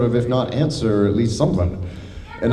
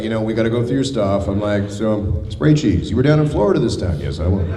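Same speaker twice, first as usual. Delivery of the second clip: customs officer dialogue; 3 semitones lower than usual. Retold or imitated. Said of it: "They're just like".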